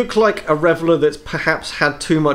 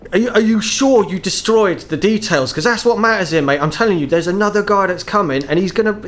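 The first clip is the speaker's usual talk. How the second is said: worried aussie tradesman; 6 semitones higher than usual. Acted. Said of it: "catches your off-tone answer".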